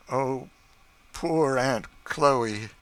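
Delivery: slow, gentle pity; drawn-out sympathy for her; compassionate. Acted. George pities Aunt Chloe before bad news, slow compassionate voice. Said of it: "stopping compassionately".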